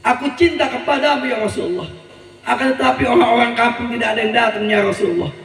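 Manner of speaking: pleading prayer. Acted. Poor villager praying softly to the Prophet. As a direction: pray quietly to the Prophet. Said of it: "dia bermunajat".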